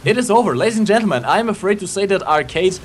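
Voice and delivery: esports caster calling the match; live play-by-play. Acted. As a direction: call the action like a caster.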